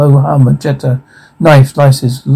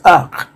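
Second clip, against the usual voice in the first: short "argh" of someone struck; brief, restrained cry on impact; acted death cry. Reader voices a victim as axe slices, short mock cry.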